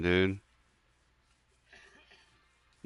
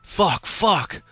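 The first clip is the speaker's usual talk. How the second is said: high, loud panicked cursing; frantic while getting hit; 6 semitones higher, 5 dB louder, slower than usual. Real, not acted. Fighting off a witch in Minecraft, high panicked yelps.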